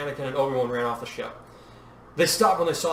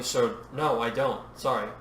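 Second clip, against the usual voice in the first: groggy; 3 semitones lower, 3 dB quieter, slower than usual. Acted. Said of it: "Padme said groggily".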